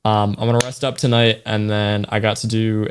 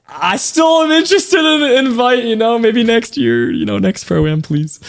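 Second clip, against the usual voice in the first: higher, slow, hammed-up begging; half-joking plea for an invite; mock desperate plea; 10 semitones higher than usual. Streamer jokingly begging Fortnite for a pro-am invite, mock pleading. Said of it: "I'm desperate".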